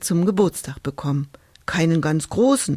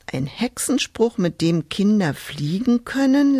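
reading aloud; 3 semitones higher than usual. Acted. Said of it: "las sie".

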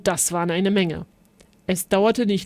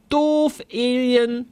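put-on a child bellowing at a playmate; yelled insult; 4 semitones higher, much slower than usual. A narrator's reading. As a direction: yell it at the other kid. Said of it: "brüllte Zolli".

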